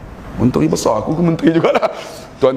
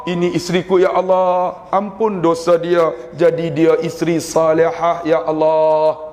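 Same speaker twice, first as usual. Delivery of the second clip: husband praying aloud; slower than usual. Retold or imitated. Preacher voicing a husband praying aloud for his wife, drawn-out call. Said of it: "Suami, doa kuat-kuat".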